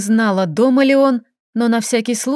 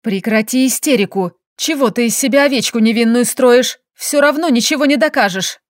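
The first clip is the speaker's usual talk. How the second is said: hissing. Acted. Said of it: "зашипела".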